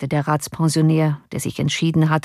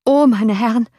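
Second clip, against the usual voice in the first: higher, alarmed coachman's cry; raised-pitch exclamation; calling out; 5 semitones higher, 4 dB louder than usual. A narrator's reading. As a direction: call out to the gentlemen. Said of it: "rief der Kutscher".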